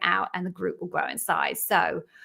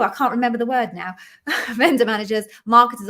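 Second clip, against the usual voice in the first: laughing at herself; 2 semitones higher, 5 dB louder, faster than usual. Real, not acted. Forgets a word mid-list.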